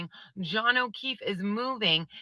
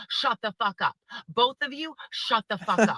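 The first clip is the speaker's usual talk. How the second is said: imagined judge scolding. Retold or imitated. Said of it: "I wanted to be like".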